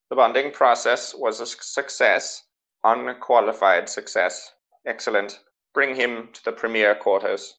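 lightly voiced pleased official; preceptor. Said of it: "And he's like".

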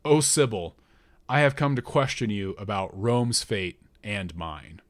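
forcing the words out; great effort. Acted. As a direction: strain to get each word out. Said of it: "I said with a great effort".

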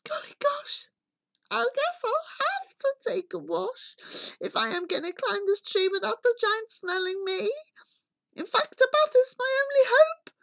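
put-on high, hushed boy's voice; soft murmur. A narrator's reading. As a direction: murmur it to yourself as young Jack. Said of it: "He murmured softly".

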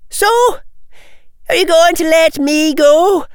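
high, loud, shaking defiance; terrified. Acted. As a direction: bluff while terrified. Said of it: "It came out sounding terrified".

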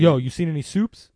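loud, high hype-man call; hyped shout. Pretend. Hyped catchphrase greeting.

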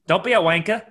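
put-on playful British-accented jibe; mock British accent. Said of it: "a mean British accent".

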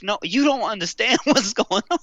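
high, laughing brush-off; laughing retort. Retold or imitated. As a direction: laugh through the answer to his daughter. Answering daughter, laughing.

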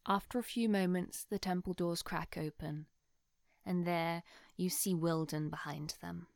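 measured, hushed scene setting; unhurried storytelling for the players; game master narration. Acted.

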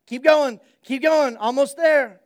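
loud, high, frantic push forward; desperate father urges Jesus through the crowd, loud and frantic; urgent urging. Retold or imitated. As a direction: hurry them on through the crowd. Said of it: "Jairus is in the back going".

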